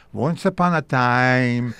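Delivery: put-on slow storybook opening in Jewish accent; Jewish dialect. Actor starting his audition reading, Jewish dialect. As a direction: begin the tale slowly in Jewish dialect. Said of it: "and that's Jewish dialect".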